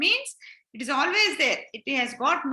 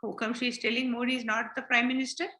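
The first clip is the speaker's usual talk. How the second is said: lower, softer, fast scornful aside; a friend scoffing under her breath; quick, lower mocking remark; 4 semitones lower, 5 dB quieter, faster than usual. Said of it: "my friend ... will think".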